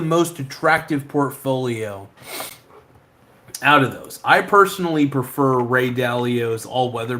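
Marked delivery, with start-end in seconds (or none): none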